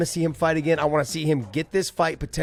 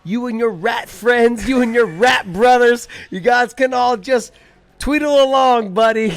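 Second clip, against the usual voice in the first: high, loud, slow cocky Irish trash talk; Conor McGregor Irish accent; 6 semitones higher, 4 dB louder, slower than usual. Pretend. Playing Conor at a mock press conference, cocky Irish accent taunts. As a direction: swagger it in a thick Irish brogue. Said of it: "best Irish accent you got".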